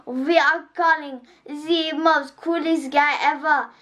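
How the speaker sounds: put-on a kid doing Gru's accent slowly; Gru accent impression. Kid greets viewers as Gru, in a slow mock Russian-ish accent. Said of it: "kind of like how he talks".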